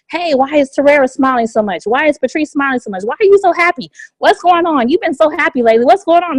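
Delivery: high, eager nosy questions; curious onlookers quizzing a grinning friend; curious questioning. Retold or imitated. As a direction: pester them about why you're so happy. Curious people questioning happy recruiter.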